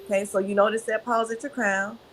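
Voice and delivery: unhurried breathing instructions; guided breathing. Shown as a demonstration. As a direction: lead them through the breath gently. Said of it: "So show me how you breathe from the belly".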